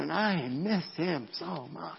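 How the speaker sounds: slow, understated ache; imagined grieving heart. Retold or imitated. A grieving family's hearts missing him, mildly sorrowful. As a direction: lightly voice their longing, taking it slowly. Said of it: "their hearts are going".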